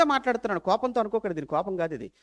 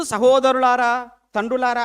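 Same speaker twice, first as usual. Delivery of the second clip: slow, courteous opening address, drawn out; gentle address; 4 semitones higher, 9 dB louder, slower than usual. Shown as a demonstration. Preacher shows Stephen's polite opening to the council, slow and courteous. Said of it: "ప్రారంభ సంబోధన అనేది ప్రారంభం ఎలా ఉంది?".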